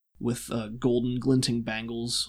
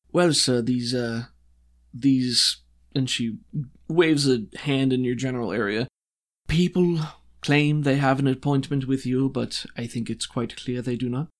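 prim assistant. Acted. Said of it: "Benicia answers her boss".

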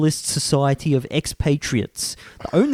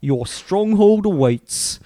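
Fable peasant voice; 5 semitones higher, slower than usual. Acted. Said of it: "the peasant voice from one of the first Fable games".

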